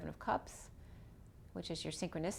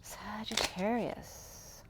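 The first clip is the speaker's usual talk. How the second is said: very slow, stretched calling; drawn out; much slower than usual. Real, not acted. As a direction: draw the name out long and slow.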